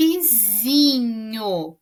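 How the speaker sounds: lapisinho drawn out slowly, syllable by syllable; slow demo word. Shown as a demonstration. Teacher showing pupils the new word lapisinho, slowly. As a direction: stretch lapisinho so the kids hear the S. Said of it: "Então, ficou".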